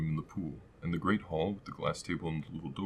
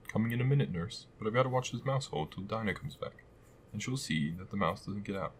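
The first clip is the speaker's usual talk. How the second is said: calling back; 3 semitones higher than usual. Pretend. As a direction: answer from another room. Alice answers nurse.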